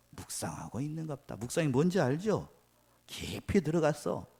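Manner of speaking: ordinary talk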